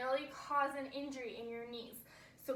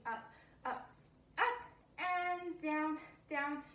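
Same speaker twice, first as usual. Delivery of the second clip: slow counting; slower than usual. Shown as a demonstration. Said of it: "Nice and slow".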